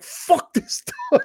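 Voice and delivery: very high, slow falsetto mimic of his wife; mock fed-up wife. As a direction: squeak it out like a wife sick of the dog. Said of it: "She's like".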